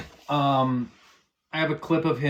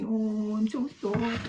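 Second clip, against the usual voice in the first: a lighter, higher sarcastic "I'm so scared"; mock fear; 6 semitones higher, 5 dB quieter, slower than usual. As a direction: toss off the fake fright half-heartedly. Mocking the dox threat again.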